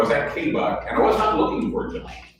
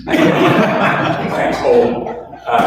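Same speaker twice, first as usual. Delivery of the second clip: chuckling through the words; laughing; 4 dB louder, much slower than usual. Real, not acted. Answering the young woman, laughing through it. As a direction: laugh it off, a bit embarrassed. Laughing at being called experienced.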